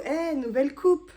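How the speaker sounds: plus haut et plus fort, montée finale; exclamation ravie. Real, not acted. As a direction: annoncer fièrement sa coupe. Montre sa coupe avec enthousiasme. (exclamation enjouée)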